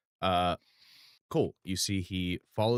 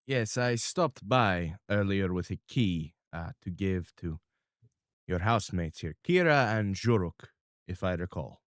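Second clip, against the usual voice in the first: formal crime boss. Acted. GM playing Mister R.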